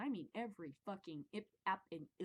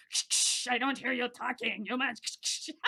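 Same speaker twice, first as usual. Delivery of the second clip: loud harsh shushing, commanding the callers; bossy shushing supervisor; 4 semitones higher, 9 dB louder than usual. Retold or imitated. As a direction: shush them hard like a whip-cracking boss, louder. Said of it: "a guy with a whip there".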